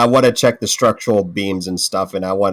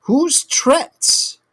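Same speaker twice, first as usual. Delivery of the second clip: baffled question. Acted. Questioning kobold in character.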